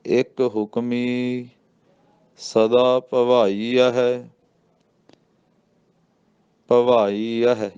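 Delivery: ਭਵਾਈ ਹੈ said together, very slowly; drawn-out chant joining ਭਵਾਈ ਹੈ; ਭਵਾਈ ਹੈ ਇਕੱਠਾ; careful recitation. Shown as a demonstration. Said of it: "ਇਹ ਇਕੱਠਾ ਹੀ ਕਹਿਣਾ ਜੀ".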